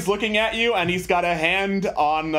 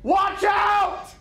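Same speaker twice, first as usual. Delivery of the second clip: high squeaky alarm shout; shouting ring voice; much slower than usual. Acted. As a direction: yell a warning like a magic ring. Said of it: "decided to yell out".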